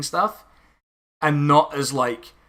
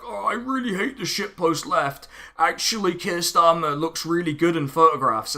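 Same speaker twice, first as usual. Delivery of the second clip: mocking imitation; 3 semitones higher than usual. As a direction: mimic their gushing opinion in a raised voice. Mimicking friends of online critics.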